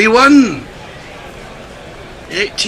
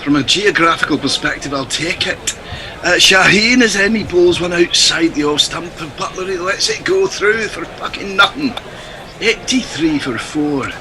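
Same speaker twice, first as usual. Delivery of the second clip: put-on Scottish accent; 3 semitones lower, 3 dB quieter than usual. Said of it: "dangerously sounding like George Galloway".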